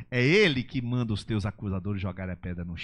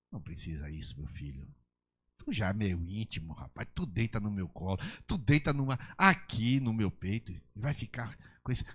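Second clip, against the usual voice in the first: tender fatherly voice. Acted. The Holy Spirit gently correcting a beloved son, tender. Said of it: "o Espírito Santo volta".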